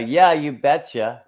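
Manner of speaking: a touch of Minnesotan; Minnesota accent. Acted. Showing a friend how Minnesota talks, light Minnesota accent. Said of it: "Minnesota is like".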